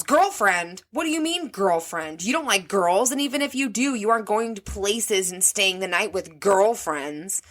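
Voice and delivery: mild mock outrage, pitch jumping up; incredulous mom, yelled in imitation only; imitated yell. Mom reacting to teen's girlfriend, mock yell. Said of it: "head about explodes and she yells".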